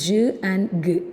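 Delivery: J as "juh", G as hard "guh"; contrasting J and G. Shown as a demonstration. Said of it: "it's very confusing". (J "ജ്", G "ഗ്" ആയി)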